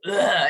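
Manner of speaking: loud, worn-out "ugh"; exhausted groan. Retold or imitated. Medium voicing a client's exhaustion, exhausted groan. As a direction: groan as if wiped out. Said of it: "how exhausting it is".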